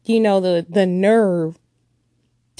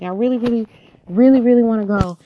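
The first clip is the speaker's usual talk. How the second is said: put-on childish pleading; 4 dB louder, faster than usual. Child begging father for outing.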